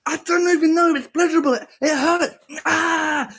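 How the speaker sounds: high, loud strained cry; father in pain at conception. Pretend. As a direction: whimper through it. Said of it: "He's like".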